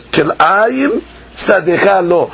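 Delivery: slow, "Kil'ayim" leading straight into "sadecha lo"; regrouped reading. Shown as a demonstration. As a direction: read "Kil'ayim sadecha lo" slowly as one unit. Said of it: "you read it like this".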